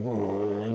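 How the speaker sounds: mock grumpy "mm", low-key; grumpy grumble. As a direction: grumble like a sullen passer-by.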